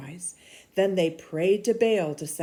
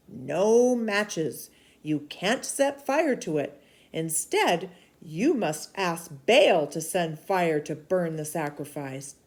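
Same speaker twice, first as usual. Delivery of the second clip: a firm, louder prophet's voice; stern prophet rebuking; 4 dB louder than usual. Acted. Elijah rebuking King Ahab, stern and loud. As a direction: scold the king like a bold prophet.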